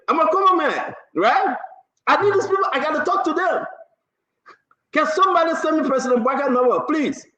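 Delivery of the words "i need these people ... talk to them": high, laughing plea. Real, not acted. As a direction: laugh while asking. Laughing while asking.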